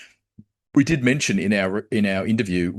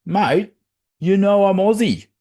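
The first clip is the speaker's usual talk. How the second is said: disappointed; 11 semitones higher, 5 dB louder than usual. Acted. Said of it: "Fed gets really sad. He gets really disappointed".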